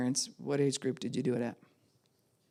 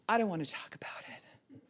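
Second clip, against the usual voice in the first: soft, higher mock teen sulk; imitated adolescent pout; sulky fourteen-year-old; 4 semitones higher, 8 dB quieter than usual. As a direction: refuse quietly, like a moody teenager. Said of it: "It's about fourteen".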